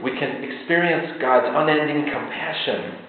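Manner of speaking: ordinary delivery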